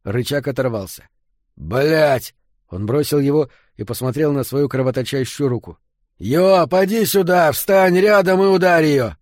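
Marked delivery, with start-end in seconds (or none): 1.5-2.3 short outburst of annoyance; frustrated curse. Acted. Curses after lever breaks off. 6.2-9.1 high, loud urgent command; shouted order. Acted. Barking orders to break door.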